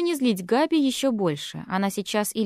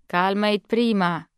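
calming sister. Acted. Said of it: "Перебила её Изабель, пытаясь угомонить".

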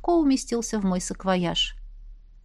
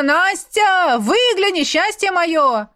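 loud higher calling, slowing at the end; 9 semitones higher, 5 dB louder, slower than usual. A narrator's reading. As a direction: beg her to look out, shouting. Ex calling from the street. (громко зовёт с улицы)

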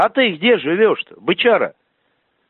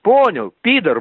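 angry shouting; 6 semitones higher than usual. Real, not acted. Heated threat on phone call.

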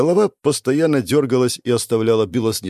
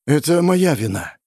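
raised, trembling admission of blame; 5 semitones higher than usual. A narrator's reading. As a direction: let the voice tremble. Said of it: "Его голос дрожал".

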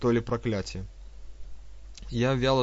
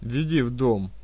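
curt order; 4 dB louder than usual. Acted. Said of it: "резко бросил он".

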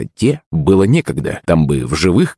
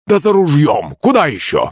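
put-on high, raised old man call; shout; 9 semitones higher than usual. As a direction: yell it while running off. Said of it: "крикнул он".

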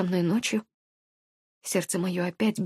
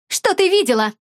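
higher, louder, a threatening demand; menacing question; 9 semitones higher, 4 dB louder than usual. A narrator's reading. Alina on the phone grilling Katya at night, menacing. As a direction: press her hard, like an interrogator. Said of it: "грозно спросила Алина".

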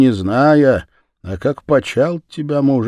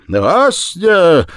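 imploring cry; 5 semitones higher, 5 dB louder, much slower than usual. A narrator's reading. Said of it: "взмолилась Дарья".

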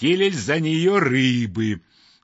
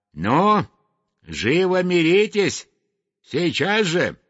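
mock-stern scolding. Sweep scolds and orders the brawlers.

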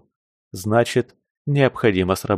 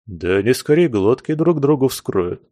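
хмыкая; 3 semitones higher than usual. Acted. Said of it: "хмыкнул повар".

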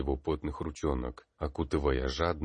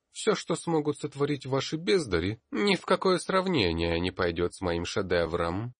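high, loud, haughty professor voice; boastful rival, loud and high-pitched; arrogant professor; 9 semitones higher, 4 dB louder than usual. A narrator's reading. Arrogant professor Carter speaks.

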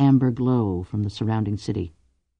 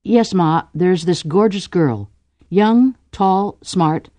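playing the son; 6 semitones higher, slower than usual. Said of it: "And Ku says".

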